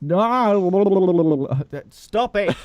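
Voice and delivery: high squeaky shouted protest; pitch-shifted helium yell; chipmunk voice. Real, not acted. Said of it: "my voice should sound normal now".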